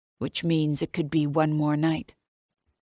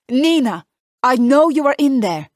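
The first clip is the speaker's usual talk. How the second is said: loud, raised call through the door; 8 semitones higher, 9 dB louder than usual. Acted. Enzo demanding through the door, loud and insistent. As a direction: call out firmly so she can't hide.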